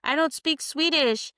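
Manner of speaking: high-pitched retold protest; mock puzzled objection; imitated protest. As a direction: lift it high, acting out a baffled girl. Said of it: "and she's like".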